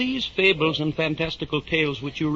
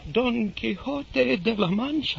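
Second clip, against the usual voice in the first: incredulous; 9 semitones higher, slower than usual. Acted. Curate incredulous at the name.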